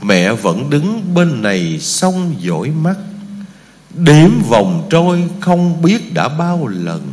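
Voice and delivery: slow, tender poem recitation; recited poem. Acted. Monk reciting a mother's poem to the Buddhists, slow and tender. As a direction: recite it slowly, savouring each line.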